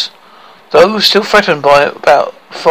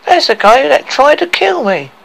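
high-pitched acted scream, not much louder; mock scream; 11 semitones higher, 3 dB louder than usual. Girl pointing out her attacker, mock screaming. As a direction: cry out in a high, restrained shriek. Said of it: "Lily White screamed".

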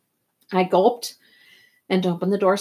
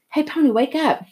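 higher, urgent wake-up call; raised voice, nudging him awake; waking someone up; 7 semitones higher than usual. A narrator's reading. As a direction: call to rouse a sleeping friend. Johnny shakes sleeper awake.

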